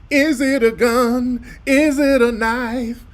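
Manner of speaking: high, slow questioning; mock speculation. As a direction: raise the pitch and drag it out. Mocking news speculation.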